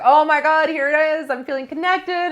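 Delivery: high, gushing mock rapture; retold elation. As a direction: gush it in a high voice. Retells elation during drum circle.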